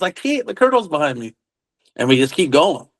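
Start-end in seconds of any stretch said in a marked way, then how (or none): 0.0-1.3 retold urgent protest. Driver protesting in retold exchange.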